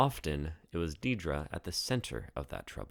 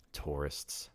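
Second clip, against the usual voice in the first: muttered under breath; 2 semitones lower, 6 dB quieter than usual. Acted. April grumbling about the tourists, soft muttered aside. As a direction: grumble it to yourself, softer. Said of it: "April muttered under her breath".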